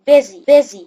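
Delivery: "busy" with the s said as z, "bizi"; "busy" spoken slowly with a buzzing z. Shown as a demonstration. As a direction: say "busy" as "bizzy". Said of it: "الإس بتتنطق ز".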